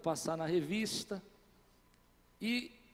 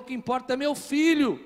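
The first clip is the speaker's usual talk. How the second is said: higher and louder, landing hard on filho; firm declaration; 6 semitones higher, 9 dB louder than usual. Retold or imitated. Pastor telling supervisor only his son matters, forceful.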